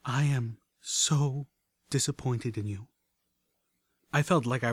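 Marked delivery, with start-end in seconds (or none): 0.0-2.9 slow, softening with disappointment; slow, hushed, regretful; soft regret. Acted. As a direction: let it sink with regret. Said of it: "her voice softening with regret".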